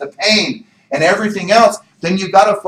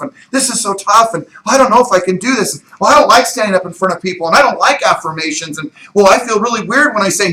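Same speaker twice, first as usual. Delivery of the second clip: whining complaint; 5 semitones higher, faster than usual. Acted. Doubting voice builds into whining.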